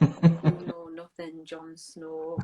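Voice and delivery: slow Yorkshire imitation with a laugh; Yorkshire accent. Quoting Ygritte to Jon Snow, playful Yorkshire accent. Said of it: "It's also Yorkshire".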